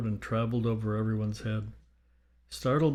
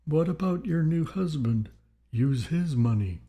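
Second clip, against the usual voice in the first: lightly British, higher-pitched spirit; a touch of British in a raised voice; slight British accent; 5 semitones higher than usual. A narrator's reading. Dead Victor to Gertrude, slight British accent. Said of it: "with a slightly British accent".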